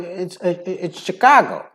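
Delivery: put-on slow, high old-gangster Chicago accent; dumpy Chicago gangster talk. Shown as a demonstration. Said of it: "like you hear the old gangsters talk".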